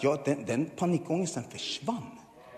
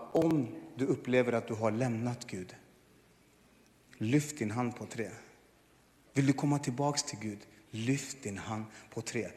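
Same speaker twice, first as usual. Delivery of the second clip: pastor's altar call; 3 semitones lower, 5 dB quieter than usual. Retold or imitated.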